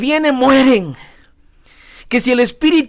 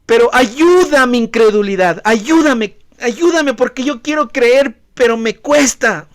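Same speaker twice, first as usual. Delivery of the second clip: mock crying out. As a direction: cry out to God, broken. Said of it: "el papá clama". (clamor desesperado, algo más fuerte)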